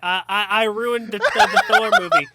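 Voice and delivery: put-on deliberately awful New Zealand accent; stammering mock Kiwi director; bad New Zealand accent. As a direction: do a clumsy New Zealand impersonation. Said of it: "your worst New Zealand accent".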